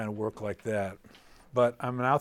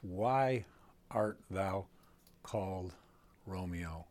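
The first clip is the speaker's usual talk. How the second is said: "Why art thou called Romeo" said softer, fading low; softly corrected line; 5 semitones lower, 6 dB quieter, slower than usual. Shown as a demonstration. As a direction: gently give the true meaning.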